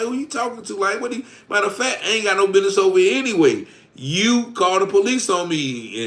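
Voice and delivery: high, heated comeback; retold attitude. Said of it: "so I get an attitude".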